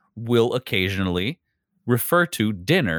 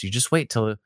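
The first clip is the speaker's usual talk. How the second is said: mom voice. Retold or imitated. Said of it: "And I'm gonna do my mom voice".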